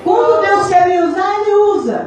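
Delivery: high, sustained preaching declaration. Real, not acted. Telling the church how God uses her, preaching.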